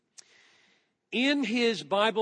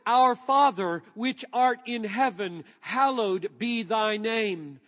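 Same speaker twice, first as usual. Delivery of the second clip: solemn scripture reading. Acted. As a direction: let each phrase land with reverence. Reads scripture quotations aloud.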